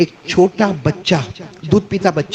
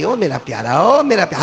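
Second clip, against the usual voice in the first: lightly voiced mother calling her baby from afar; 2 semitones higher than usual. Mother calls her crying baby from afar, lightly voiced. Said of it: "ایسی ماں دور سے ایک آواز دی".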